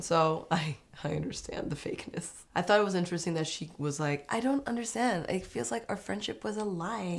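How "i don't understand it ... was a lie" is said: high, soft mock-hurt voice; put-on hurt, sinking softer; playing the victim. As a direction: imitate a wounded friend guilt-tripping. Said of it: "Playing the victim card".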